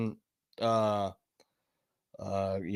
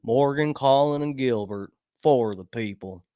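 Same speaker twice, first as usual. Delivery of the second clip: lightly imitated Kentucky lawyer's tagline; Southern accent; 3 semitones lower than usual. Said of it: "basically a Southern accent".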